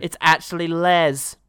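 slow teasing echo of Les; mocking echo. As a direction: repeat it slowly, mocking. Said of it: "That's his catchphrase".

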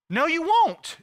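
loud, high-pitched denial; emphatic refusal. Acted. Master rejecting the servant's foolish promise, loud and emphatic. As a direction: throw the refusal out high and hard. Same answer, escalated.

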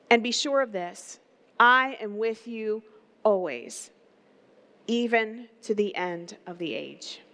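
measured, earnest Bible reading; scripture reading. Acted. Pastor reading Matthew to the congregation, measured and earnest. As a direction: read the passage to the congregation with weight. Reads scripture passage aloud.

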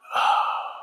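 long, voiceless sigh; heavy sigh. Acted. Preacher imagining Peter hearing the rooster, heavy sigh. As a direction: let out a slow breath. Pause after the rooster crows.

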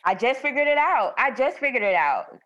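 excited. Real, not acted. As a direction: announce the discovery with delight. Excited realization.

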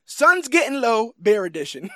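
hammed-up movie line; mock gruff line. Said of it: "Then I have".

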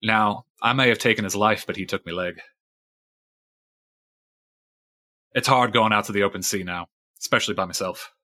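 lightly voiced weathered fisherman recounting a grudge; a hint of salty sea-dog storyteller; old sailor Fisheye.

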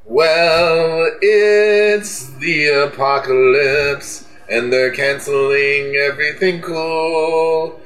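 lightly hammed-up upbeat sign-off; mock cheerful outro. Asked to sing the show out, a mock-cheery outro over music. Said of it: "Blake, you can sing us out".

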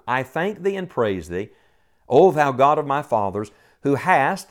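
emphasize "hast" in the verse; emphatic scripture reading. Shown as a demonstration. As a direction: read it out firmly, landing hard on "hast". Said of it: "I'll emphasize the word".

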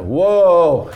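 a loud, high shouted "Whoa"; crowd shout. Retold or imitated. Imitating the crowd shouting "Whoa" at the horse. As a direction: bellow "Whoa" like a whole arena. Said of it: "And the whole crowd went".

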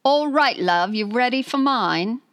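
lightly put-on British accent; cheeky Brit impression. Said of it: "Is this Russell Brand?".

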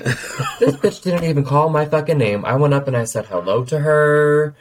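acted-out aggrieved venting; angry retelling. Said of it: "why I'm so fucking angry".

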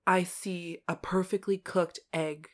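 soft, hushed retold reassurance; gentle chef. Imitating a chef consoling a crying kid, softly. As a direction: quietly lead up to the comfort.

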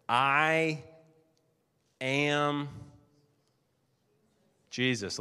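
I ... am ... Jesus with long pauses; slow solemn reveal. Shown as a demonstration. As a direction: let each word land alone, slowly. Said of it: "Here's what Jesus says".

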